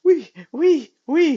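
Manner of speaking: put-on high, loud squeals of a little girl on a slide; imitated gleeful child. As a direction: squeal it out like a kid sliding down. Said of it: "she goes down the slide. And she's like".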